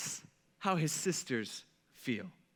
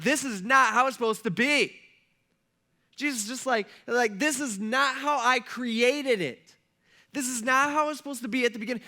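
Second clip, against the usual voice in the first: grieved frustration; 5 semitones higher, 4 dB louder than usual. Acted. Jesus at the tomb, grieved to anger: raised, pained protest. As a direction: let grief tip into anger, pleading higher.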